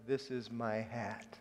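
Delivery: "This is my hat" said slowly and softly; slow careful phrase. Shown as a demonstration. Pastor slowly repeating his Spanish attempt. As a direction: say it like a learner sounding it out. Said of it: "the simple structure".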